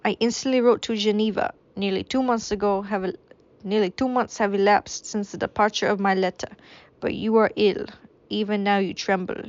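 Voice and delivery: a wavering, hammed-up French accent; a French accent slipping away. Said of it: "this is French anymore".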